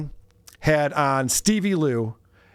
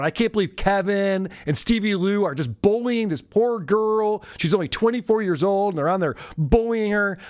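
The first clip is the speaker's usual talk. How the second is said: mock whiny rant; 5 semitones higher than usual. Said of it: "the rant where he's going".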